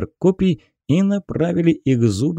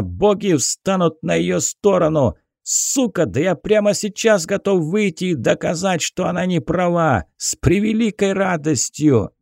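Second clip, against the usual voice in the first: angry peasant voice; 5 semitones higher than usual. Acted. Peasant retorts to the captain.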